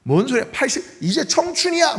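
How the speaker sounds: joking, upbeat retort; mock cheerful dismissal. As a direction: pitch jumping high on 청춘이야. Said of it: "뭐예요?".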